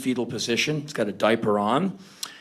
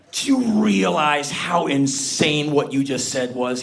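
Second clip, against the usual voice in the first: incredulous shout; slower than usual. Retold or imitated. Stunned at arm story.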